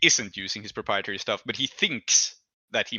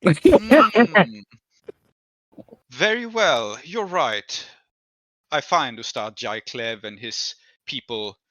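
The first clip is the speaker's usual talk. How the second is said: patron's voice; slower than usual. Acted. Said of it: "and he says".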